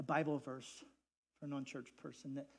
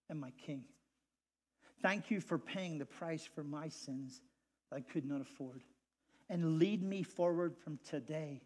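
model prayer. Shown as a demonstration.

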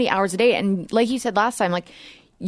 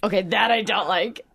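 whispering. Real, not acted. Talking about ASMR.

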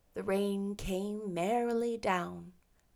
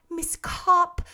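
raised polite address; lightly voiced Anne; 9 semitones higher, 7 dB louder than usual. A narrator's reading. Anne politely addressing Miss Copp, lightly voiced. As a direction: greet her politely, in character.

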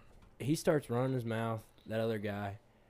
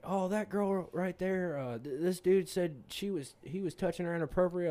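bouncer voice; 7 semitones higher than usual. Retold or imitated. Bouncer voiced in retold bar story.

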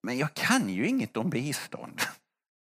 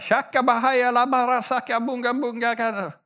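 imitating someone speaking in tongues, high and a bit louder; 8 semitones higher, 3 dB louder than usual. Someone in church breaks into tongues, mock tongues-speaking. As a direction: rattle off mock tongues in a higher voice. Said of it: "det här med tungotal".

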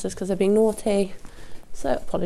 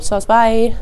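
talking to horses; 4 semitones higher, 9 dB louder than usual. Real, not acted. Dismissing horses, no food.

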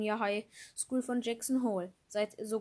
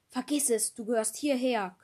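growled; 4 dB louder than usual. Acted. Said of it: "knurrte die Stimme meines Vaters".

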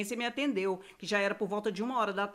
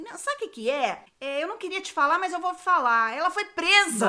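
higher and louder, building to the reveal; mother admitting the arrest, rising louder; mother confessing; 6 semitones higher, 6 dB louder than usual. Retold or imitated. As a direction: build up to the blurted confession, half laughing.

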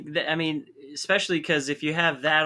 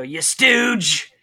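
louder mock insult; Pat Patterson; 3 semitones higher, 5 dB louder than usual. Co-host quotes old wrestler insulting his rival, mock taunt. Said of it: "Pat Patterson called Joe Briscoe".

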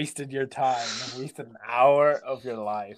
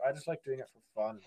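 meek streamer; 10 dB quieter, faster than usual. Retold or imitated. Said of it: "And then the streamer's like".

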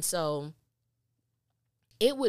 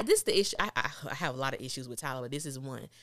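usual speaking voice

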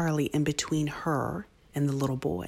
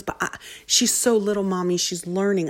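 lightly voiced little kid, pitched up; imitated pleading child; 4 semitones higher than usual. Son defending his sister to mother, mildly pleading. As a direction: protest on a sibling's behalf.

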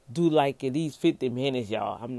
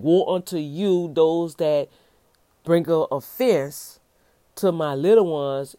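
judgmental woe; 4 dB louder than usual. Shown as a demonstration. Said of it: "a judgment call woe".

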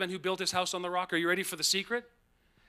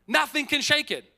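triumphant shout; 7 semitones higher, 5 dB louder than usual. Real, not acted. Preacher rousing the congregation.

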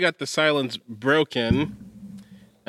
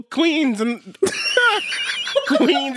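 voice crack; 10 semitones higher, much slower than usual. Acted. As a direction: hype voice cracking high. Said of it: "Why'd your voice crack".

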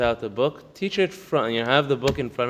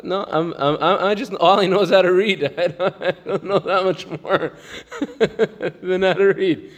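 mock humble; 4 semitones higher than usual. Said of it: "for a person's humility".

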